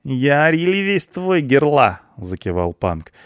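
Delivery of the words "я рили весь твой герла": high, loud devoted voice; eager punk. A narrator's reading. Punk offering himself to the blonde, eager. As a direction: pledge yourself in high excitement.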